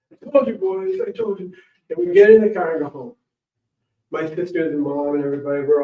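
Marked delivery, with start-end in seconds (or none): 0.1-1.5 higher pitched told-you-so; gloating grandpa. Retold or imitated. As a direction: savour being proven right. Grandpa gloating over mushroom haul.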